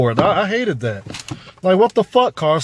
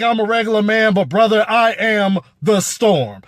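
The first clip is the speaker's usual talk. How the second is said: menacing villain line; 5 semitones higher than usual. Retold or imitated. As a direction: land it like a real threat. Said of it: "That's what I wanted to see".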